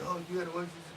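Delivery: high, soft whiny mimicry of friend; put-on high nagging voice, trailing into repeats; mocking imitation of pestering. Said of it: "You kept saying".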